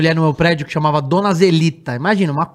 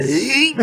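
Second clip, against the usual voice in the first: a higher, strained little grunt; lightly imitated fat guy's groan; mock grunt; 6 semitones higher than usual. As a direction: grunt as if sitting down is work. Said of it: "Ele fala".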